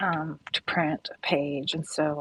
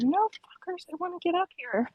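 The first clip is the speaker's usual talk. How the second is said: pitched way up, whiny; high squeaky mock voice; 12 semitones higher than usual. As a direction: squeal it like an impatient kid. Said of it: "she's like".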